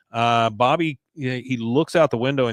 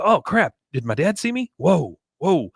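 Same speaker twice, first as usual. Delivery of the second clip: mock panic, pitched up; hammed-up startled kid; 6 semitones higher than usual. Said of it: "he goes".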